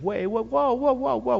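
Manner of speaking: high alarmed whoa, whoa, whoa; 1 alarmed stop. Retold or imitated. Preacher halting God in his retold prayer, high alarmed cry. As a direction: pull up short in mock alarm.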